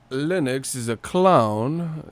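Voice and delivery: very slow, drawn-out mock tough talk; mocking impression. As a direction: stretch the words to mimic him. Repeats mocking Joshua impression.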